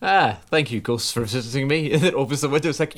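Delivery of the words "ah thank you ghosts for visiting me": mildly hammed-up grateful Scrooge; a light, cheery take on Scrooge; reformed Scrooge. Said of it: "Scrooge at the end of Christmas Carol".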